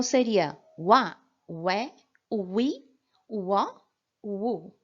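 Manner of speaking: "wa, ué, ui, uó, u" as W plus vowel drill; sound drill. Shown as a demonstration. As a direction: run the W vowel sounds one by one. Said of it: "vai ser acompanhada pelas vogais".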